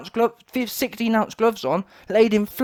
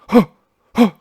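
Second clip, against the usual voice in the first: effort grunts; 3 semitones higher, 8 dB louder than usual. Retold or imitated. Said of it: "he goes".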